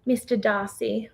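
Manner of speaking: put-on slow, swooning British accent on Mister Darcy; a light Pride and Prejudice British accent; mild British accent, dreamy and slow. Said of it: "That's a good accent".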